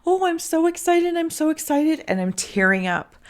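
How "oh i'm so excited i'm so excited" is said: squeaky, much higher gleeful creature voice; excited little creature. Retold or imitated. The creature the reader sees, cheering with hands up, in a high gleeful squeak. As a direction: bounce it out like a delighted little critter. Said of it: "this same creature, like, holding its hands up".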